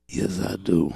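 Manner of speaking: lightly voiced old man; understated elderly reply. Old man answering the champ, lightly aged voice. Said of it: "And the guy goes".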